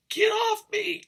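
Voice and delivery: high pushing-away cry; Rose brushing off Jack. Retold or imitated. Rose to frozen Jack, high dismissive cry. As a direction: shove him off with the voice. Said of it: "she's like".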